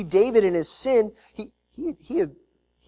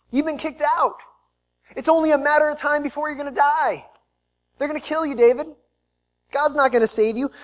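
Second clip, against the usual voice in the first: jeering taunt, climbing higher and louder; mocking enemies; 7 semitones higher, 4 dB louder than usual. Enemies jeering at King David, loud mocking taunt. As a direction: taunt the fleeing king that God has left him.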